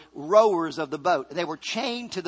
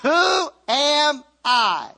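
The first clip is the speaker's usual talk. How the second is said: timid Moses; 6 semitones higher, 5 dB louder, much slower than usual. Retold or imitated. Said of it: "Moses said".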